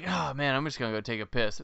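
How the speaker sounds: mock casual, offhand tone. Describing a scene, acting out how a man casually said his line. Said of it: "he says it like".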